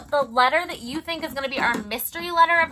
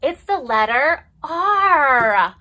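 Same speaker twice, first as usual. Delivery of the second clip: drawn-out announcing reveal; slow dramatic reveal; 4 dB louder, much slower than usual. Acted. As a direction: unveil it slowly, with wonder. Big reveal of mystery letter.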